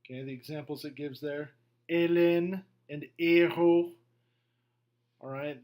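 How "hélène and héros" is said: "Hélène" and "héros" with no H sound, slow; French words, H unspoken; silent French H. Shown as a demonstration. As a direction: drop the H, French style. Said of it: "The H is always silent in French".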